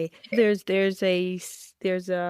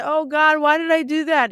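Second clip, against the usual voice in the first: mock crying plea; 7 semitones higher, 4 dB louder than usual. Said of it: "you come crying and say".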